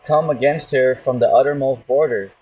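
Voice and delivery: slow, deliberate preaching of the verse; scripture reading. Acted. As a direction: lay each phrase down slowly and gravely. Reads verse twenty-six aloud.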